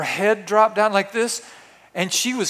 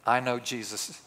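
softer and lower, slow at the end; hushed reverent answer; 5 semitones lower, 10 dB quieter, slower than usual. Retold or imitated. Candy striper answering George in reverent awe, hushed and slow. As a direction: answer as if barely daring to speak.

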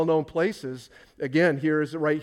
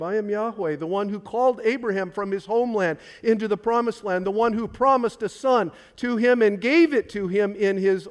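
higher and louder, ringing declaration; I am Yahweh proclaimed high and loud; emphatic proclamation; 5 semitones higher, 4 dB louder than usual. Retold or imitated. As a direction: thunder it out as the voice of God. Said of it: "Jesus emphatically stated".

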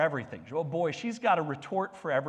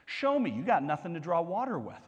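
flippant retort; faster than usual. Retold or imitated. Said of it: "You know, like".

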